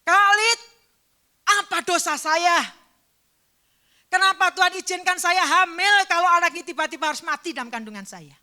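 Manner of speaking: loud, grief-stricken crying out; anguished cry. Retold or imitated. Grieving mother crying out to the pastor, loud anguished wail. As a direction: wail out the question through grief. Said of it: "teriakan pertama sampai hari ini saya ingat".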